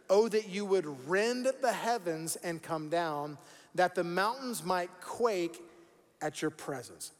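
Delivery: slow, measured reading of the verse; scripture reading. Real, not acted. Pastor reads Isaiah's prayer to church, slow scripture reading. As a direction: read it out slowly, dropping at the end. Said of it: "let's read it again a little slower".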